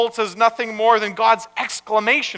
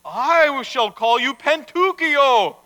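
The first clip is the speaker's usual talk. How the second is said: slow, higher, louder naming; solemn proclamation; 6 semitones higher, 5 dB louder, slower than usual. Acted. Rabbi naming his table-leg child, proclaiming. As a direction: proclaim the name slowly and grandly.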